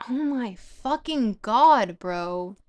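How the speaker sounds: slow, loud exasperated groan. Real, not acted. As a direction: drag it out in frustration. Frustrated outburst at the text.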